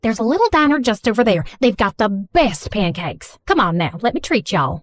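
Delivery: put-on thick Southern mom accent; gushing Southern accent, apologetic and sweet. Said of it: "speaking in a thick Southern accent".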